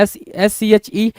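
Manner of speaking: letters spelt out slowly, one by one; slow spelling out. Shown as a demonstration. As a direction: dictate each letter slowly to the class. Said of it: "शेड्यूल".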